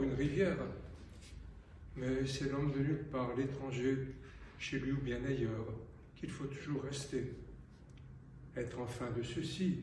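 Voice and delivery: spaced-out poem reading, line by line; measured recital that lifts in the lists; poetry recitation. Acted. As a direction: recite in short phrases, leaving silence after each.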